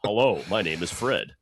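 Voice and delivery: loud mock English accent; hammed-up, unsteady English accent; wobbly English accent. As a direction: put on an English accent that won't stay straight. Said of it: "He can't keep his accent straight".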